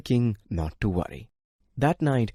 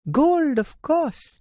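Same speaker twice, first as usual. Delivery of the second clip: matter of fact; 4 dB louder, slower than usual. Acted. Princess answers obviously.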